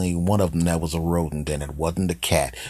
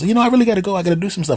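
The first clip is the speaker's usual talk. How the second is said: high-pitched, louder squirrel voice; nervous squirrel; 13 semitones higher, 5 dB louder, much faster than usual. Acted. Squirrel making excuses to the man to get away, nervous high voice. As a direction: squeal out an excuse as a cartoon squirrel.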